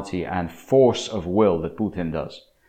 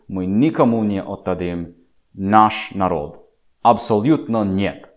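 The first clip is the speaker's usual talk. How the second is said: Russian voice; 3 dB louder than usual. Retold or imitated. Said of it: "That's exactly how they would say it".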